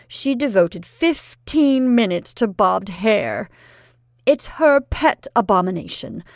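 loud, worried lecture; fretting aunt. Acted. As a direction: worry aloud, rising toward the end. Aunt fretting about the dance.

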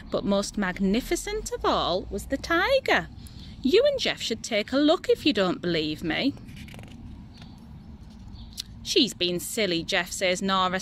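animated storybook narration with lively, lifted dialogue; children's story reading. A narrator's reading. Parent reading a little boy's favourite tiger book, animated storytelling. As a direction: read it to young children with expressive pitch swings. Reads picture book aloud.

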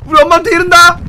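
taunting threat to tell mom; tattling kid. Pretend. Kid threatens bullies he'll tell mom, whiny taunt. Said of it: "왜 그래?".

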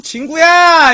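loud high call, voice up; calling out like to a dog. Shown as a demonstration. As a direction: shout the name across the yard. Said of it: "강아지 개새끼 부르는 것 같고".

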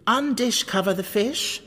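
measured verse with lilting pitch; riddle poem recitation. A narrator's reading. White Queen recites her fish riddle to Alice, lilting verse. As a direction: recite line by line, pausing between phrases.

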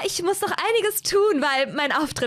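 eine etwas höhere, gezierte Hazel-Stimme; Hazel voiced. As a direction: spiel Hazel leicht höher, kokett. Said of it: "Hazel zu spielen ist so anstrengend". (Hazel, leicht höher gesprochen, schwärmt Edgar vor)

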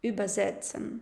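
Übersetzen again, stress on Ü; Übersetzen, said to confirm it; stress on Über. Shown as a demonstration. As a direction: repeat Übersetzen with the stress up front. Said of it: "Да?".

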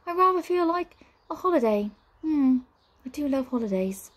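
high, languid witch voice; teasing witch. A narrator's reading. Witch tells brother she fancies a holiday, airy teasing. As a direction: muse airily, pitched high.

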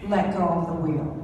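low, calm, unhurried voice from nowhere; distinct calm voice. Retold or imitated. Mysterious voice telling a driver on ice, calmly low. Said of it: "the most distinct voice simply say".

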